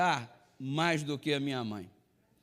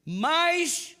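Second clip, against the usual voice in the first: higher, louder preaching voice, slowing at the end; 6 semitones higher, 4 dB louder than usual. Acted. Preacher drives home his point to the congregation, higher and louder. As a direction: build it up for the congregation.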